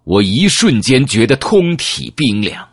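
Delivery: ordinary delivery, nothing marked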